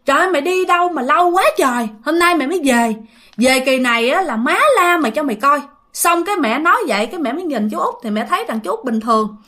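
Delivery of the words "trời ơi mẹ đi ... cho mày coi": mild mock-scolding outburst, higher pitched; retold scolding. Mother scolds the long-missing brother-in-law on his return, mild retold scolding. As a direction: exclaim as a scolding sister-in-law, half-hearted. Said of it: "mẹ la lên liền".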